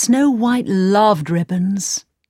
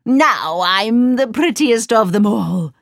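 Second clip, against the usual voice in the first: smug, vain gloat; mildly voiced gloating queen; 3 semitones higher than usual. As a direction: preen over her triumph. Queen gloats after victory.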